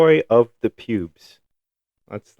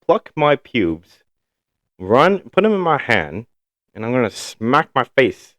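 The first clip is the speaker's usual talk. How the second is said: mock bully; 5 semitones higher than usual. Mocking the bully's thinking.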